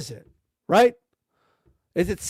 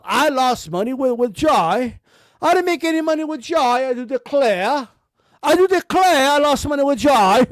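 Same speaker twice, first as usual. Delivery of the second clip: smug Eddie mockery. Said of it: "I'm a smug little asshole".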